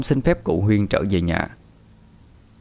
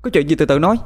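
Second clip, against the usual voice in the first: high, raised scolding voice; angry shout; 10 semitones higher, much faster than usual. A narrator's reading. Daughter confronting men who beat her father, angry shout. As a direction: lash out in defence, quickening at the end. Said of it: "Bà tôi lao lên quát".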